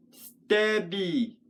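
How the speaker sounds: stabby said slowly, weight on STAB; stabby in two parts, STAB the stronger; stress on first syllable. Shown as a demonstration. Puppet poet testing syllables hand under chin, stabby stressed on STAB. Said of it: "the emphasis is on stab".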